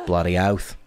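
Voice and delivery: "Bloody oath" in a light Aussie accent; Australian slang. Shown as a demonstration. Explaining Aussie slang to viewers, saying it in a light accent. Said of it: "Bloody oath is slang".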